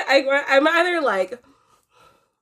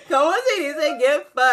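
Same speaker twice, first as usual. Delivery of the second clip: giggling the Spanish line; laughing quote; 4 semitones higher than usual. Retold or imitated. Retelling her own line to her friend, giggling. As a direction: say it while cracking up. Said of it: "I'm like".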